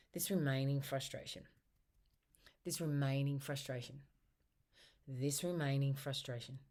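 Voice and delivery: tapping reminder phrase. Shown as a demonstration. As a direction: repeat it calmly while tapping.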